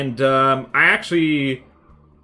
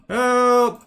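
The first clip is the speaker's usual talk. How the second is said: higher, louder playful yell for help; mock cry for help; 10 semitones higher, 9 dB louder than usual. Streamer pretending Bane has possessed him, loud mock shout. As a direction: shout help, hammed-up panic. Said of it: "I'm being possessed by Bane".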